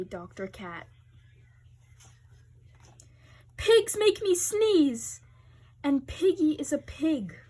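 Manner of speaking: Gerald voice. Acted. Gerald role voice.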